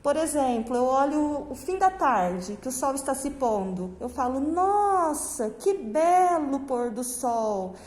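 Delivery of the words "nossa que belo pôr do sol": mild wonder at a lovely sight; lingering, admiring exclamation for a class example. Shown as a demonstration. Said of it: "Eu não estou admirando?".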